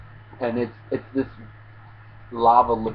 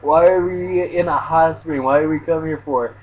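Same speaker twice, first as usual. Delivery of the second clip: freaking out; 3 semitones higher than usual. Retold or imitated. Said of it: "Ichigo's just freaking out".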